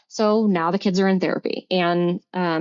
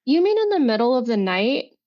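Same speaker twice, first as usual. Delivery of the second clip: retold incredulity; 4 semitones higher than usual. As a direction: spell it out in disbelief. Retold confrontation with her ex.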